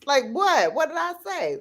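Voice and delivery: high mock-innocent kid voice; protesting toddler. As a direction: play the puzzled little one pleading innocence. Toddler defends his remark.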